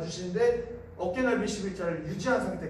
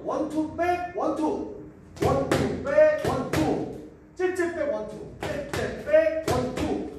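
barking gym coach; 5 semitones higher, 3 dB louder, slower than usual. Real, not acted. Coach calling punch combos.

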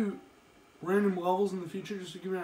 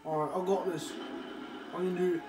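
put-on Australian accent. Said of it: "Why am I talking in an Australian accent?".

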